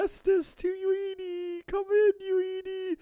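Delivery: high, slow pretend walkie-talkie call; mock radio call. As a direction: call in over the radio, half-joking.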